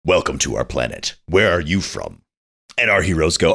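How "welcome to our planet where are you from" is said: lightly voiced announcer-like alien greeter; weird announcer voice. Aliens welcoming visitors to their planet, weird announcer voice. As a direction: welcome them in a mock announcer voice. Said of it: "weird voice that is a announcer voice".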